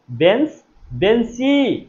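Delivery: teacher stressing the ending ই in বেঞ্চি; demonstrated pronunciation. Shown as a demonstration. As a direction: sound out বেঞ্চ, বেঞ্চি, stretching the last vowel. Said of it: "মুখে উচ্চারণ করেন তো".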